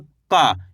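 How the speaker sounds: का held as one open syllable, falling low; letter pronunciation demo. Shown as a demonstration. Teacher helping learners catch the letter's sound, demonstrative low का. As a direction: isolate का and let the pitch drop. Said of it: "इस तरीके से का को पकड़ो आप".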